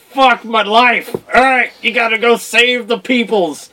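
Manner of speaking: slow, resigned dying groan; dying hero. Retold or imitated. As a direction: shrug off death, half-joking. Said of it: "to be like".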